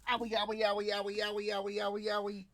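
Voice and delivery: high, loud cartoon whimpering; mock Lenin getting shot. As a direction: ham it up like a shot man whining. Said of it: "they have him go".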